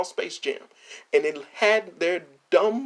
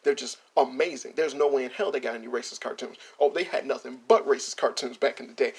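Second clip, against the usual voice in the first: mock Disney denial; 4 semitones lower than usual.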